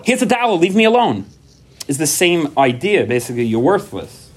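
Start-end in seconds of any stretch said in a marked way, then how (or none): 0.1-1.2 high, brushing-off voice; high mock brush-off handing over a dollar; dismissive parent. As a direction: shoo the kid away, pitch raised.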